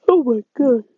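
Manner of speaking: words stretched by a yawn. Real, not acted. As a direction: say it through a real yawn. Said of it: "sorry for that yawn".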